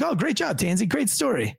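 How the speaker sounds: high-pitched, pretend congratulations; mock praise. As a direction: hand out gushing praise you don't mean. Imagined praise he rules out.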